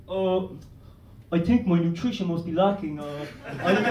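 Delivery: lightly voiced low, hesitant friend; oblivious drugged friend. Friend with a nosebleed blames his nutrition, mildly dazed. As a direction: muse in a low voice, puzzled. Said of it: "and he's like".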